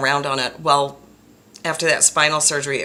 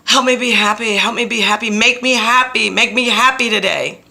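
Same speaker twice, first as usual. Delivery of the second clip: loud, higher pleading prayer; 7 semitones higher, 7 dB louder than usual. Retold or imitated. To God or the universe, a loud higher pleading prayer. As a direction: beg the universe for happiness. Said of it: "I say a prayer".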